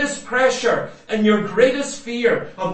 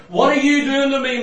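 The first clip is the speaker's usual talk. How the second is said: body crying out; 4 semitones higher, 4 dB louder, faster than usual. Retold or imitated. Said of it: "my body's crying out".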